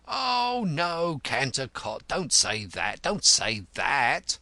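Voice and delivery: little cobbler's earnest plea; pleading. Acted. Cobbler begging his offended lodger to stay, pleading. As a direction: beg him, drawing out the last words. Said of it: "pleaded the little cobbler".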